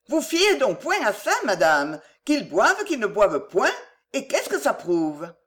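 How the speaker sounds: a lightly voiced old housekeeper; chatty old servant, gently voiced; old countrywoman voice. La mère Fouillette parle. (vieille servante bavarde, voix à peine jouée)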